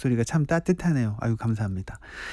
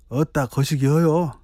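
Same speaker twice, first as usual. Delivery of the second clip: put-on Jeolla accent. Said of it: "전라도요?".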